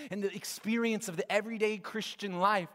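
high, urgent preaching. Real, not acted. Preacher describing exhausted parents' nights, preaching urgently. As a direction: press on energetically through the list.

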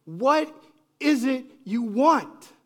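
high, loud and slow, annoyed and dismissive. Retold or imitated. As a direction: drag it out, fed up with the asking. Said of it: "that's kind of the tone there".

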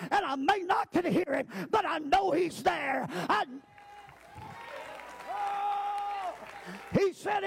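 rising preacher's cadence, pressing each line; full-voiced Sunday sermon; preaching. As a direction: preach it out to the congregation. Preaching over a congregation.

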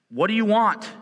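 urgent question to God. Retold or imitated. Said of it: "we ask God".

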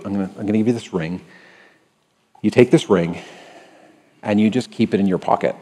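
ordinary talk, nothing marked

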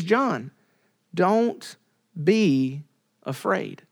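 softening, spaced word by word; gentle encouragement. Retold or imitated. Jesus encourages doubting John, gently and unhurriedly. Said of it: "He encourages him".

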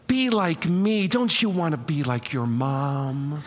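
hammed-up guilt-tripping mother, half laughing; guilt-tripping mom. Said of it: "I wanna show you how he moms them".

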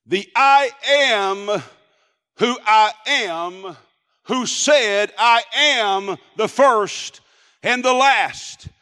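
slow, stretched-out "I am", each phrase set apart; grand, deliberate pulpit cadence; weighty divine declaration. Acted. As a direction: proclaim it as a revelation. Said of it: "they must have heard something like this".

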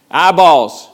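loud laughing call; call and response shout. Real, not acted. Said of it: "when I say eyeballs, you say click".

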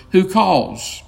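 a high, piping little "Who calls?"; a brave mouse calling into the dark; piped mouse voice. A narrator's reading. Narrator voicing Reepicheep with a high piping call. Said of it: "it piped".

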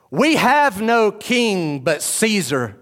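high, loud, slow defiant declaration; chief priests. Acted. Chief priests answering Pilate, slow defiant declaration. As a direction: declare it with contempt. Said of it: "The chief priests answered".

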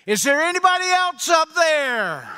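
high shout with a laugh; panicked punchline shout. Retold or imitated. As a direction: yell the punchline up in comic panic. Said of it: "turned around back to heaven and said".

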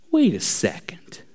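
soft, low, half-whispered realization; puzzled murmur. Retold or imitated. Preacher reading the verse gets stuck, puzzled murmur. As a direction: murmur it softly to yourself. Puzzling alone over the word.

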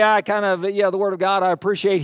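mock half-hearted appreciation; lukewarm approval. Pastor showing what the psalmist doesn't say, lukewarm approval. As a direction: hedge it casually, with no passion. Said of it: "He doesn't say".

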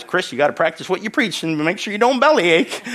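mock-nag like a wife; comic telling-off as he hears it; exaggerated nagging wife. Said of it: "She doesn't talk like that".

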